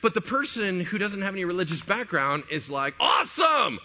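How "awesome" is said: high, shouted burst of enthusiasm; all fired up. Retold or imitated. A person without religious background reacting, all fired up. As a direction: cheer it like a thrilled newcomer. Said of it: "they're just all fired up".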